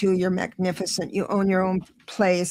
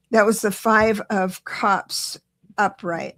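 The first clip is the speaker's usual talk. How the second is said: slowing down; slower than usual. Real, not acted. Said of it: "Sorry, let me slow down".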